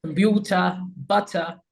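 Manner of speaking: "computer", "butter" ending in "-tuh"; British dropped R. Shown as a demonstration. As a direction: drop the final r in "computer" and "butter". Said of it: "don't pronounce the ra at the end".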